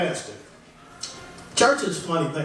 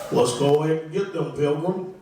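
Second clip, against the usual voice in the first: John Wayne impression; 4 semitones lower than usual. Comic doing a light John Wayne as a doctor. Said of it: "John Wayne's John Wayne".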